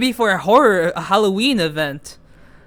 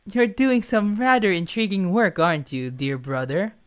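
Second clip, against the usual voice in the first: creepy brother; 3 dB quieter than usual. Acted. Younger brother surprises Leo on the phone, creepy. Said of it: "the creepy voice is like, Oh, it's, like, so scary".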